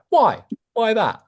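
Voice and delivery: mock a parrot repeating "Why that?". Shown as a demonstration. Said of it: "you sound like a parrot".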